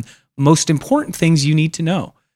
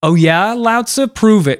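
mocking challenge; 8 semitones higher than usual. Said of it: "And then they're like".

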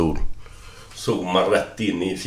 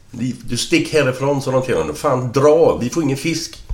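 raised, higher-pitched irritated protest; annoyed yelling fisherman; 7 semitones higher than usual. Acted. Fishermen telling a water-skier to clear off, annoyed. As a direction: shoo someone off, indignantly.

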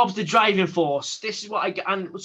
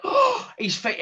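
gasping, high-pitched fan impression; mocking high squeal of awe; mock starstruck; slower than usual. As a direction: gasp and gush like a star-struck fan. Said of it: "I'm not the type of guy".

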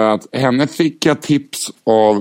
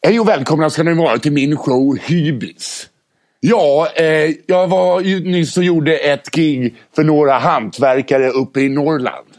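Mårten Andersson impression; 3 semitones higher, slower than usual. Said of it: "Kör nu, Mårten Andersson".

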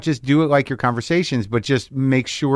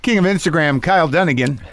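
upbeat morning DJ, pitched up; radio host voice; 4 semitones higher than usual. Pretend. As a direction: play the chirpy radio host. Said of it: "I'm still in character".

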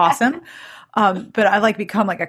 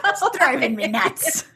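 punchline repeated while laughing; 4 semitones higher, slower than usual. Real, not acted. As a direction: giggle through the punchline. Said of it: "That really got me".

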